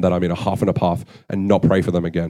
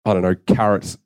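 annoyed; 2 semitones higher than usual. Retold or imitated. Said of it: "I was so annoyed".

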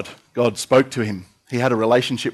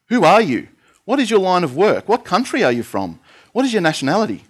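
higher, pressing questions fired at him; demanding; 8 semitones higher than usual. A narrator's reading. Sailors confronting Jonah in the storm, demanding and pressing. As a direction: read the sailors' questions as an interrogation. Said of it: "they demanded".

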